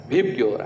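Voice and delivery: Vibgyor pronounced as a single word; acronym as word. Shown as a demonstration. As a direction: blend the letters into Vibgyor. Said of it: "Pronounce it as".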